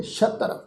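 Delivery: ਸ਼ਤਰ with "sh" and a joined "tr"; dotted sassa. Shown as a demonstration. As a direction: say ਸ਼ਤਰ as "shatr", starting on "sh". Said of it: "ਸੱਸੇ ਪੈਰ ਬਿੰਦੀ ਲਗਾ ਕੇ". (ਸ਼ਤਰ ਵਿੱਚ ਬਿੰਦੀ ਵਾਲਾ ਸ਼ ਤੇ ਅੱਧਾ ਰਾਰਾ)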